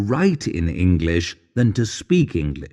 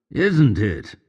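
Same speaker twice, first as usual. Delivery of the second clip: question tag. Shown as a demonstration. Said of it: "finish all your sentences with the question".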